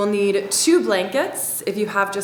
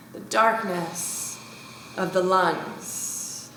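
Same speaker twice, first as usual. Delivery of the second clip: guided breathing meditation. Acted. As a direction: lead them gently into the breath, unhurried.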